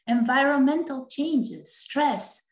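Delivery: running out of breath; breathless at the end of a long list. Real, not acted. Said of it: "You can tell I'm running out of breath here".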